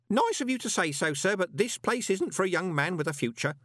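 high, urgent character voice; earnest old underling. Acted. Grote warns Moist to leave, earnest and high-pitched. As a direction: plead a warning to the boss.

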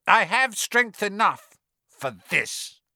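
high, slow, insistent master; sinister high voice. A narrator's reading. Master overruling his worried servant, high and slow. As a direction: insist slowly in a high eerie voice. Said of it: "The high voice spoke again".

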